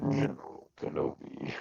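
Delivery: glitchy General Grievous-like robot; garbled robotic line. Real, not acted. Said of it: "can you please say, uh, General Kenobi for me".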